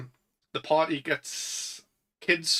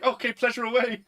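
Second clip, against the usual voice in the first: high, breezy mock girl voice; quoting the girlfriend; 10 semitones higher, 3 dB louder than usual. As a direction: toss it off in a raised voice. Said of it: "And she's like".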